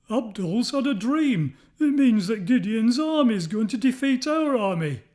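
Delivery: whisper-worried, as if scared of the news; frightened soldiers. A narrator's reading. Midianite soldiers fearfully share a dream, frightened. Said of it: "talking in frightened voices".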